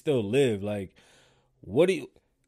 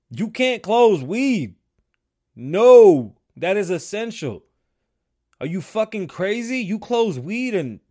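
higher and louder, the first line stretched slow; real disbelief, near shouting; outraged exclamation; 7 semitones higher, 9 dB louder, slower than usual. Real, not acted. Outraged rant about weed shops.

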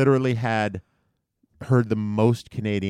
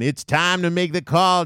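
radio host; 8 semitones higher, 4 dB louder than usual. Retold or imitated. Radio host voiced in story.

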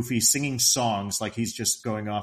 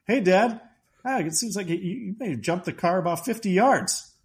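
a hint of an excited kid, higher pitch; mock excited son; 8 semitones higher than usual. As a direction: lightly voice an eager son calling to his dad. Voices excited Russ in film retelling.

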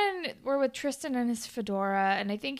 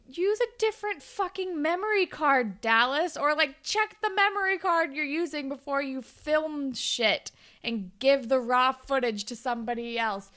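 higher-pitched mock scolding rant; exasperated; 5 semitones higher than usual. Viewer scolds Dallas over the memory card, exasperated. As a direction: tell off someone absent, exasperated.

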